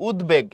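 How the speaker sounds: উদ্বেগ pronounced "ud-beg"; sounded bofola. Shown as a demonstration. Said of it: "এখানে বফলার উচ্চারণ হয়".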